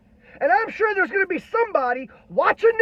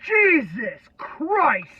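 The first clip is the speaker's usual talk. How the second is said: despairing groan; 5 semitones lower, much slower than usual. Real, not acted. Slow despairing exclamation.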